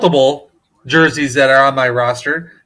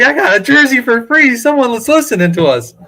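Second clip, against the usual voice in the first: hyped; 6 semitones higher than usual. Retold or imitated. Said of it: "I was like".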